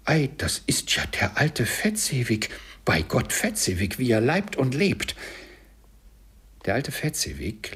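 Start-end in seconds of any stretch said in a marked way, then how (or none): 0.1-5.2 freudig überrascht, etwas höher; aufgeregt. Acted. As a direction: staunend wie beim Wiedersehen. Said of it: "in großer Erregung". (Scrooge erkennt aufgeregt seinen alten Meister)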